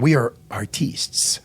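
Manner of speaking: mocking a pretentious videographer calling himself an artiste; mocking pretentious artist. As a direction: draw it out like a self-important artist. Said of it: "they like to call themselves something different".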